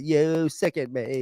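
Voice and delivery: slow, savored mock disgust; imitated revulsion, stretched out; drawn-out disgust. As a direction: repeat it slowly, relishing each word. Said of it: "I like how he says it".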